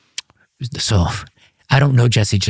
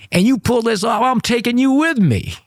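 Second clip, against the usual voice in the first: grand promise; 13 semitones higher than usual. Retold or imitated. Jackson promising to take him along.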